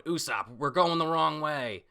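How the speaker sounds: a high worried Chopper. Retold or imitated. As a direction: play the panicked little reindeer. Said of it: "Chopper's going".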